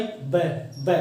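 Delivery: lips pressed for ब; isolated lip sound. Shown as a demonstration. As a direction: pop ब off closed lips. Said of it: "lips का use कर रहा हूँ मैं".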